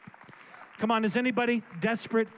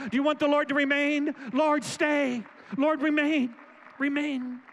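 raised, driving preacher's call; preaching at full force; 3 semitones higher than usual. Acted. Preacher rallies the congregation to beg the Lord to stay, fervent. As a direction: urge the room to want the Lord to stay.

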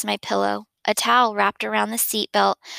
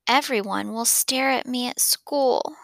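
breathy, tearful near-whisper; suddenly crying; 3 semitones higher than usual. Acted. Boy tells his parents his fear about school, tearful. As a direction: let the fear spill out as tears come. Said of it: "suddenly crying".

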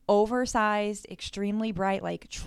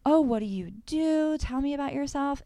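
flirty women voice; 6 semitones higher, 3 dB louder than usual. Retold or imitated. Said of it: "these women are like".

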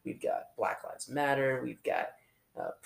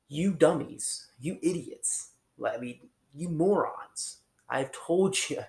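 slow, louder, higher fed-up scolding; hammed-up telling off of dim followers; mock exasperation; 4 semitones higher, 3 dB louder than usual. Pastor imagining Jesus scolding the disciples, in mock exasperation. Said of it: "anybody in all of history that could say".

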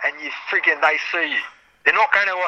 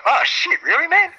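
a high, thrilled "really?" to a generous mate; surprised; 13 semitones higher than usual. Retold or imitated. Thanking a mate who turns up with grape waste, thrilled high surprise. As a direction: pitch jumps way up, half laughing in disbelief.

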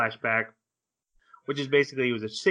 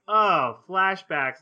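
excited oh flashbacks; 7 semitones higher, 5 dB louder, much slower than usual. Retold or imitated. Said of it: "I'm like".

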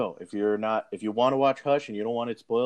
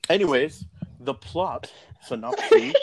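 laughing; 11 semitones higher than usual. Real, not acted. Laughing while announcing.

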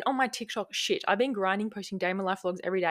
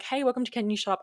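fake intro voice; 3 semitones higher than usual. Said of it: "I just sound like a fake ass bitch".

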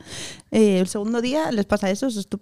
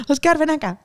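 higher, a light Argentine lilt on "Oscar, ven acá"; playful Argentine accent; 6 semitones higher than usual. Pretend. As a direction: call him the Argentine way, teasing. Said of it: "En Argentina se pronuncia Oscar". (acento argentino en broma, llamándolo)

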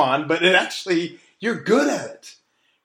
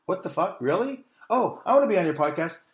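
mock amazed fan; 2 semitones higher, 3 dB quieter than usual. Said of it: "will be like".

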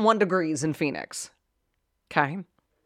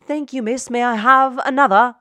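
mock-obedient request, pitched high; hammed-up polite plea for punishment; meek submission; 6 semitones higher, 5 dB louder than usual. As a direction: play the grateful victim, high-voiced. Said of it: "stand there and say".

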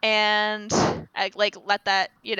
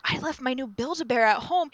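higher-pitched imitation of a tearful girl; mock crying; 4 semitones higher than usual. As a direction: imitate a child upset over a lost toy. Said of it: "the girl starts crying".

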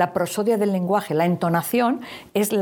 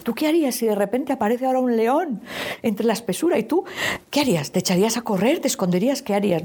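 a lightly higher, inviting parent's question; gentle higher questioning voice to a child; parent asking child; 5 semitones higher than usual. Shown as a demonstration. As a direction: coax the child to answer.

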